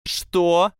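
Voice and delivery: high, loud startled shout; shouted what. A narrator's reading. Parvati turning on Tracey, shouting high. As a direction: snap it out loud. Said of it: "закричала Парвати".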